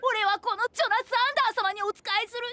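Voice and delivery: high, hammed-up begging to the king; a mock-humble servant pleading with the king; fawning servant act. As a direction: grovel theatrically before royalty. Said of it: "俺の一世一代の名演技".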